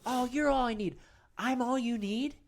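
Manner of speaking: mock amazement. Mirror self answers, amazed at being needed.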